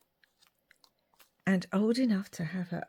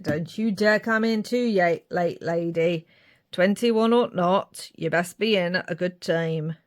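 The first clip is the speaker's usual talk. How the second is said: lightly voiced stern northern father; a warning in a put-on northern accent; northern dad; 3 dB louder than usual. Dad warning his daughter about late nights, light northern accent. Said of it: "I just go for a northern accent".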